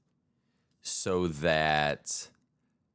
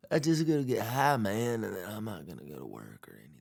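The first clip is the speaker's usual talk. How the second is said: Bill Clinton impression; 4 semitones higher, faster than usual. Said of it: "Maybe a little Bill Clinton".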